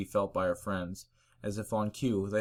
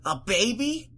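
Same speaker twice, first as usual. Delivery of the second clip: shocked; 13 semitones higher, 6 dB louder, slower than usual. Acted. Rainbow shocked.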